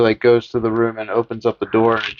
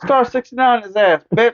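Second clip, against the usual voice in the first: much higher, squeaky curse; mock Linda insult; 12 semitones higher than usual. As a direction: fling it like a petty brat. Voicing Michael.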